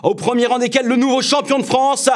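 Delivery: cycling race announcer. Shown as a demonstration. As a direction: call the sprint finish to a stadium crowd, rising. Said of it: "pour animer des épreuves sportives et essentiellement des courses cyclistes".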